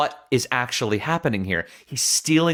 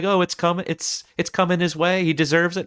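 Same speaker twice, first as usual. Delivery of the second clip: mock director; 7 semitones higher than usual. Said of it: "No, I'm kidding".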